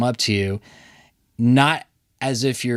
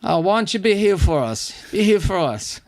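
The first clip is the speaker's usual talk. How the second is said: mock pleading; 9 semitones higher than usual.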